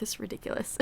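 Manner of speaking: breathless, short on air; gasping a little after talking; out of breath. Real, not acted. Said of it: "I feel like I'm so out of breath".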